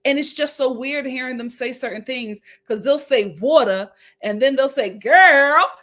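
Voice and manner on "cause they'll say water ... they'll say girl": loud mocking take on a faux Black accent, "girl" punched. Mocking non-Black men's put-on Black accent. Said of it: "this accent is a mixture".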